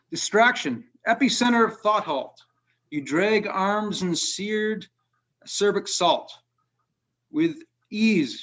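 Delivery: measured, unhurried reading of a dark poem. Acted. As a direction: read it like a poet at a reading. Reads his poem Handheld Magic.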